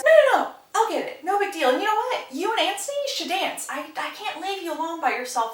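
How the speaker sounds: high-pitched, hurried protest; mock eager insistence. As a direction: imitate someone brightly insisting on helping. Colin hastily insisting, acted quote.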